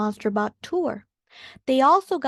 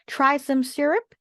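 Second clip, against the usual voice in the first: higher, lightly robotic voice; 4 semitones higher than usual. Acted. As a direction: play a mechanical robot lightly. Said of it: "said a robotic voice".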